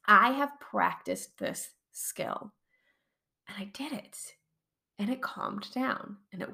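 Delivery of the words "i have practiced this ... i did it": whispering. Real, not acted. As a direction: drop to a near whisper. Quiet pride in whisper.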